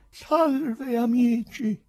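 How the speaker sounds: high, loud hail to the room; loud greeting. A narrator's reading. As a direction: call out loudly to everyone. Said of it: "disse forte".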